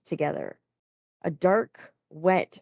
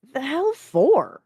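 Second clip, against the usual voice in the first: drawn-out, high-pitched complaint; grousing; 9 semitones higher, 5 dB louder, slower than usual. A narrator's reading. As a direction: gripe in loud, stretched-out protest. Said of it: "groused Tao Tao".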